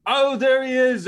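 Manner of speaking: put-on high, slow, loud little girl voice; calm child quote. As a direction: play her cool and deadly, high and slow. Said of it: "she's like".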